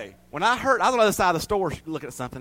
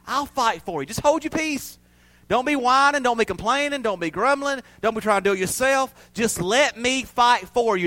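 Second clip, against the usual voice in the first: voicing God; 5 semitones higher than usual. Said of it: "That's what God is saying".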